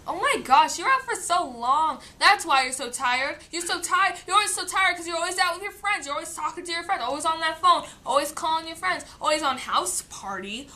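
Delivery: imitating parents' endless complaint; mock scolding mom. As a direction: rattle it off like an annoyed mom.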